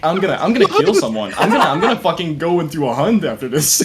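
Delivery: retelling a threat through laughter; amused fake fury; laughing mock rage. Retold raging, laughing.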